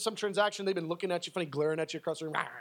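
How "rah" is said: imitated growl. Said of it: "just growling at you".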